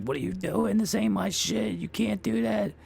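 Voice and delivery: high, disbelieving cry; shocked protest. Retold or imitated. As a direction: blurt it in outraged disbelief. Protesting mom trashing friend's gear.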